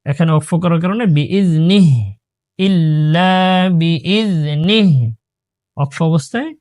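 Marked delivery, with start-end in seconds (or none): 1.0-5.1 বিইজনিহ ending on a silent h, without the kasra; stopping with sukun. Shown as a demonstration. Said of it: "বিইজনিহ সাকিন দিতে হবে". (বিইজনিহ-তে সাকিন দিয়ে থামা)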